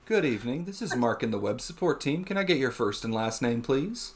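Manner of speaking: composed, practised support greeting; lightly put-on helpdesk professional; customer service voice. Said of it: "hear my customer service voice".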